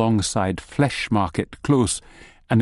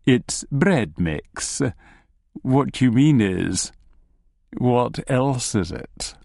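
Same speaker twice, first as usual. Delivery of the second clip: slow, measured gnome voice; lightly voiced gnome, spacing out each phrase; cagey gnome; slower than usual. Gnome hints at hidden meaning.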